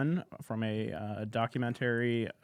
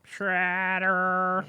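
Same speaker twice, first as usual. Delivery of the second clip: mock sobbing wail, pitched up; crying impression; 6 semitones higher, 3 dB louder than usual. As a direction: blubber the name like you're weeping. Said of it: "Do it one more time".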